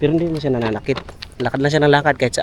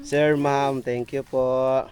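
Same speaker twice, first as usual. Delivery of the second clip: slow prompting; 4 dB quieter, much slower than usual. Shown as a demonstration. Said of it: "What will you say?".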